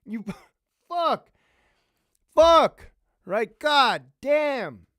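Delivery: lieutenant ranting at an inmate about accountability; angry rant. Retold or imitated. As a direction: chew him out for his drug debt. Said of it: "The clerks heard me yelling".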